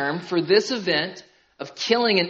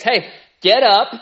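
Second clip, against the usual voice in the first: urgent call; 4 semitones higher, 9 dB louder, slower than usual. Acted. Jesus rousing sleeping disciples.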